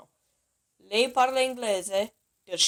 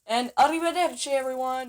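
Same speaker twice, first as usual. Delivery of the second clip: bright sign-off; 4 semitones higher, 5 dB louder than usual. Real, not acted. Cheerful sign-off.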